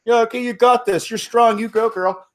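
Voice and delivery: high, loud mocking agreement; mock bros. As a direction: play the bros backing off. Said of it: "the bros should have been like".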